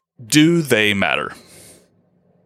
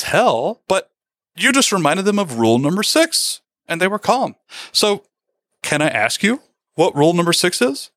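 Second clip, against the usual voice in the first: puzzled asking; 5 semitones higher than usual. Retold or imitated. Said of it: "the visiting prime minister says".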